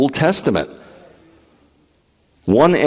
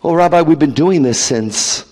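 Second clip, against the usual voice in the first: mock congregant excuse; 5 semitones higher than usual.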